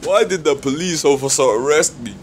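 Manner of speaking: lightly put-on African accent; a hint of an African accent. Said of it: "that African accent, man".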